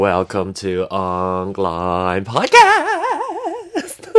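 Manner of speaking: slow, laughing welcome; slow giggly greeting to listeners; laughing intro. Real, not acted.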